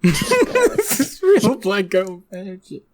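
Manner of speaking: slow, laughing put-on voice; mock imitation. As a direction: parrot the line back slowly, teasing. Repeats friend's line mockingly.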